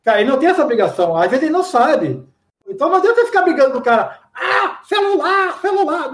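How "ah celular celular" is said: high mock complaint voice; mocking Brazilian customer. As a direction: imitate a stubborn Brazilian insisting. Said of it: "Não, cara, não é celular". (brasileiro teimoso imitado, voz aguda de deboche)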